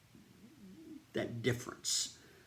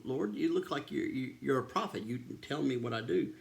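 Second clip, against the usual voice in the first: mildly astonished, retold in a slightly raised voice; a touch of amazement, higher at the start; shocked; 3 semitones higher, 4 dB louder than usual. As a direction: lightly act out a stunned woman. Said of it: "the woman was shocked and says".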